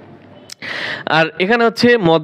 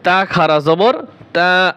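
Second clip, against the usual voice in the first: slow drawn spelling; slower than usual. Shown as a demonstration. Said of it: "উচ্চারণ কি? Same.".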